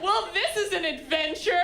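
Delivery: relentlessly upbeat; a traveller cheering up the group; chirpy optimist. Retold or imitated. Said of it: "they're like".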